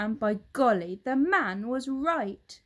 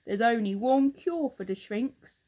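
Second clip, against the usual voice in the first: put-on a louder, gloating old husband; Mr Twit; 2 semitones higher, 6 dB louder than usual. Husband taunts his wife, loud and gloating. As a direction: lean in, relishing the lie.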